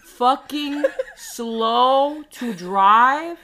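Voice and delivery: drawn-out mock complaint. Mocking slow drivers to a friend, drawn out loud. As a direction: stretch every word out, loud and high.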